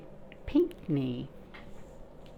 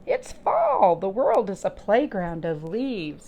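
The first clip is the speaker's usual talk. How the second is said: gleeful announcement of autumn; delighted grasshopper; 4 dB louder than usual. Acted. Teacher voicing the grasshopper for children, gleeful.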